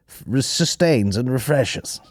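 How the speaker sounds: ad slogan read. Retold or imitated. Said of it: "it'd be like".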